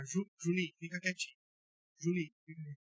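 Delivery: put-on soft, meek plea to the child; soft request. Shown as a demonstration. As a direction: ask gently, almost murmured. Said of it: "Mudou o timbre de voz". (pedido baixinho e manso)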